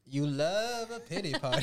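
sassy, laughing take on the line; said right. Shown as a demonstration. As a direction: deliver it like she did, sassy. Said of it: "you gotta say it right".

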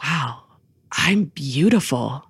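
quietly awed at her own reflection; awed realization. Retold or imitated. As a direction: breathe it out as a first discovery. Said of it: "it was the first time that I was like".

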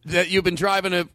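lightly voiced hype announcer; buffet announcer impression. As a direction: sell the buffet like a local ad pitchman. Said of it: "try to do his, his tone".

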